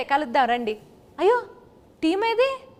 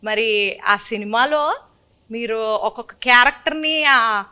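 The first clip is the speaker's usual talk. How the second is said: lightly put-on Srikakulam village accent; mock Srikakulam dialect, lilting delivery; Srikakulam slang. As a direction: play a Srikakulam local asking questions. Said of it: "కొంచెం Srikakulam slang".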